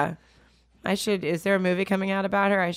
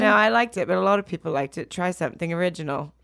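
put-on English accent; haughty English star brushing off a fan; affected mock-English retort; a singer. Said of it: "I'm still in character".

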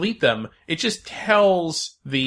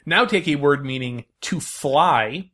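quiz host. Acted. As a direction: read the clue like a game host. Quiz host reading puzzle.

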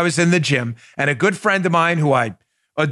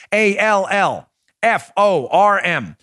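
each letter slow and separate; spelled out slowly; 4 semitones higher, much slower than usual. Acted. Spelling out brand.

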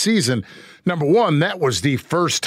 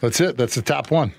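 put-on a light British accent, reading the question card. Host asks for a British accent on the question card, lightly done. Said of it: "Give me your best British voice".

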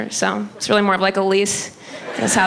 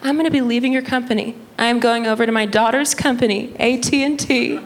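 self-important mom impression, pitched up; put-on higher, declaring mom voice; mom's voice; 3 semitones higher than usual. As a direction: imitate mom making a grand announcement. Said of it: "she's like".

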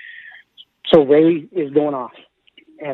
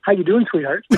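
slightly higher, playful sweet greeting; Ray Ratto; 4 semitones higher than usual. Retold or imitated. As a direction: imitate a friend's teasing sweet hello. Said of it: "this is typical Ray Ratto".

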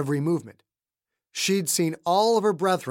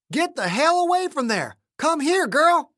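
desperate shout; 12 semitones higher, 4 dB louder than usual. A narrator's reading. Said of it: "Colding shouted".

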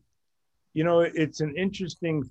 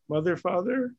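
raised, questioning call; teacher calling on someone; 5 semitones higher than usual. Retold or imitated. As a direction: mimic a teacher picking out a student. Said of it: "That's how he called on me".

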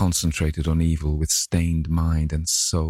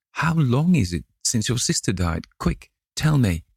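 urgent; 6 semitones higher than usual. Acted. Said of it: "he cried".

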